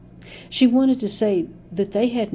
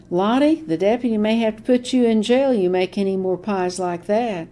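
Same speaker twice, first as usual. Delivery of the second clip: mock-threatening deputy; 4 semitones higher, 6 dB louder than usual. A narrator's reading. Deputy taunting grandmother at register.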